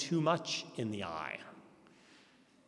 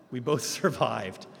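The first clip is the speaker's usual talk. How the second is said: laughing; 2 semitones lower than usual. Real, not acted. Speaker laughs recalling a pastor's terrifying driving. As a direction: laugh breaks through mid-line, slowed.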